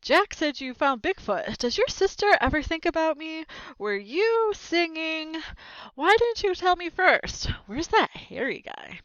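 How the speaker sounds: high, eager overlapping questions; excited questions. Acted. Friends crowding in, all asking at once, high and eager. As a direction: fire them off high and eager. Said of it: "They all started speaking at once".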